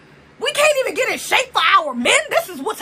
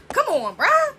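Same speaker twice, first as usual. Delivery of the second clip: ordinary delivery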